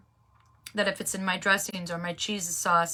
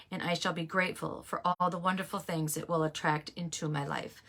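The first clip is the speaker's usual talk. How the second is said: reading a pledge; 2 semitones lower than usual. Shown as a demonstration. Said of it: "I'm just gonna read it to you".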